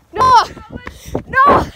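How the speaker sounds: high loud urgent call. Real, not acted. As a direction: call his name to hurry him. Calling friend urgently.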